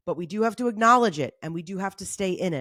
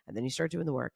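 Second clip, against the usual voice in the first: dropping the voice softer; getting quieter; 6 semitones lower, 7 dB quieter, faster than usual. Shown as a demonstration. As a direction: start pulling the volume down. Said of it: "and it gets quiet".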